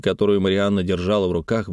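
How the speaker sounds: ordinary delivery, nothing marked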